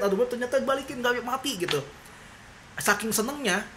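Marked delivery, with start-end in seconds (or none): 0.0-1.6 relieved and overjoyed. Retold or imitated. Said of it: "terlalu seneng, kaget".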